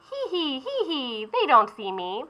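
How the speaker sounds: mock the baker with a giggle; teasing beignet boy.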